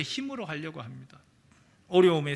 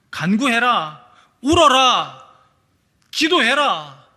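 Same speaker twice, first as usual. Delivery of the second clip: loud, high, slow commands, 울어라 cried out; thundering commands; 4 semitones higher, 10 dB louder, slower than usual. Acted. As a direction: proclaim each command as a shout. Preacher thundering God's commands.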